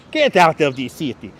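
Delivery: comic foreign accent in imitation of a sitcom character; imitated foreign-accented catchphrase; Balki Bartokomous. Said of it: "inspired by Balki Bartokomous".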